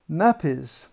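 measured storybook reading with long pauses; story narration. A narrator's reading. Author reads a potty story to children, storybook narration. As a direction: read it to small children, leaving room between phrases. Reads own picture book aloud.

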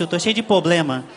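"problema" said as "poblema", first r dropped; mispronunciation. Retold or imitated. Mãe complaining to her son, mispronouncing "problema" as "poblema". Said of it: "ela fala muito errado".

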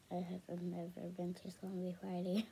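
slumby party mumbled in a breathy whisper; slumby whispered, unvoiced and soft; whispered slip. Real, not acted. Mispronounces slumber, then repeats.

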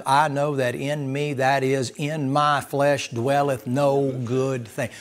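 slow, weighty scripture quote; scripture reading. Acted. Preacher quoting the Apostle Paul to the congregation, slow and solemn. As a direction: lay each phrase down slowly.

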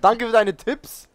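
loud, annoyed sarcastic thanks; frustrated sarcasm. Real, not acted. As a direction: snap back in frustration. (genervt und laut sarkastisch)

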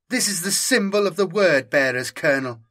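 commanding female inquisitor voice; a touch of imperious authority; stern inquisitor. Acted. Inquisitor Santos voiced in story.

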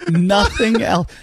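high, slow twangy voice; Holly Hunter imitation. Dad keeps imitating his daughter, high and drawn out. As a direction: mimic the daughter's drawl, slowed down. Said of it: "she says it like Holly Hunter".

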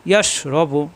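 "ইয়াস" with a long "sh" before "রবু"; hushing "sh". Shown as a demonstration. Teacher demonstrating the letter shin, hushing "sh". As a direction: hold the "sh" closing "ইয়াস". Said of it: "শাস আওয়াজ".

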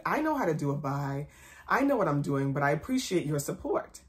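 understated, composed retold reply; cool, calm, collected. Employee answering the owner's micromanaging, cool and collected. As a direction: answer evenly, without rudeness or snap. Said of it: "I was just cool, calm, and very collected".

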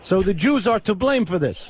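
put-on foreign accent, broken English. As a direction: prank caller with a fake foreign accent. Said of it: "why do you have an accent?".

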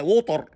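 ووتر as "wo-tar", hard t and r; heavy Arabic-style water; wrong pronunciation. Shown as a demonstration. Teacher saying no language says it, wrong pronunciation. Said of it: "مفيش لغة بتقول".

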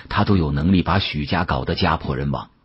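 ordinary delivery

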